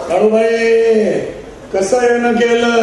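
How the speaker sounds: drawn-out, respectful call to the goddess; reverent slow address. Retold or imitated. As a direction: call the goddess slowly and with devotion. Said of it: "आमची आई तिच्याशी बोलते". (देवीला हळू, भक्तिभावाने हाक)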